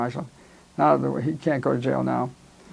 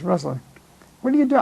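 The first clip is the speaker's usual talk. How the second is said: surprised greeting; 3 semitones higher than usual. Retold or imitated. Calling his old army buddy after the war, surprised and delighted.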